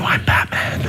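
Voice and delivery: hammed-up gravelly Batman growl. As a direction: growl it like the Dark Knight. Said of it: "I'll just say".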